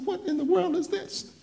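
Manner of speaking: high, laughing disbelief; a laughing, high-pitched what in the world; incredulous. Retold or imitated. Pastor hearing the rumour, high laughing disbelief.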